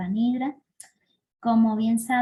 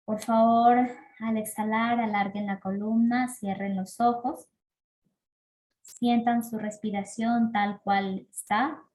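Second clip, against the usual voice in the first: calm breathing-practice guidance with long pauses; guided meditation. Acted. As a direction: lead them gently through each breath, letting phrase ends fade. Guía una práctica de respiración. (guía de meditación pausada y serena)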